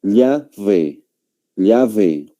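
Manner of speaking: "llave" slowly, with a v sound in "ve"; Spaniard's "llave" with a distinct "ve"; Spanish pronunciation. Shown as a demonstration. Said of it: "va a pronunciar un español".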